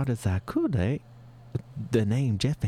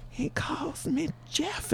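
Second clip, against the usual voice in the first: high, soft breathy whisper; 5 dB quieter than usual. Acted. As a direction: whisper it, scandalized. Repeating the secret.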